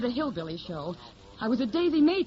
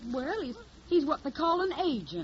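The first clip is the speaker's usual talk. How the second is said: put-on hillbilly accent; 4 semitones higher than usual. Hildy poses as a Tennessee country girl, in a put-on Southern accent. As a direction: play the naive Southern hillbilly singer. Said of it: "I got the technique down pat".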